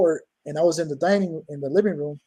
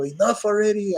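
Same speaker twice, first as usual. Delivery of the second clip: mildly raised fed-up yell, pitch higher; yelled mad; 5 semitones higher than usual. Retold or imitated. Man fed up with ghost knocking, angry yell. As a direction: snap it out, sick of the knocking. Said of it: "I yelled out 'cause I was already mad".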